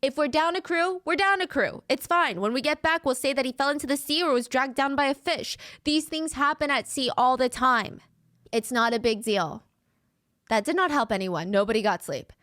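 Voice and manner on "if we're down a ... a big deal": higher, downplaying it to settle nerves; easing the tension. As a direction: shrug it off to reassure the crew. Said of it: "tried to ease the tension".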